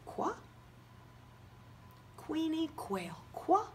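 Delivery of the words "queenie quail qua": high puppet voice. Acted. Teacher voicing letter puppet.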